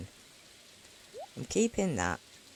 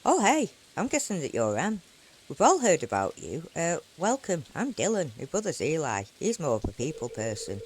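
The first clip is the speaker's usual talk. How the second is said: Dylan voice. Acted. Voicing Dylan character.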